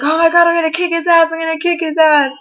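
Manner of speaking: mock fury, rattled off quickly; fired-up best friend. Best friend vowing revenge on the ex, in mock outrage. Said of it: "and she's like".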